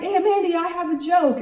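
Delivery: put-on high-pitched little-kid voice; eager kid with a joke; six-year-old nephew. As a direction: announce it like a proud small child. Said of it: "My nephew is six years old".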